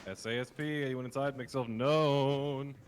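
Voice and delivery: loud police callout, slowing on the end. Acted. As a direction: shout it into the building. SWAT callout to occupants.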